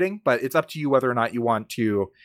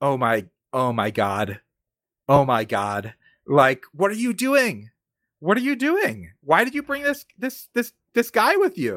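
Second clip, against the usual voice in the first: shocked outburst, words repeating, pitch swooping and rising. Voicing a character who sees an unexpected player walk in: shocked. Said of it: "who is immediately shocked to see another player character".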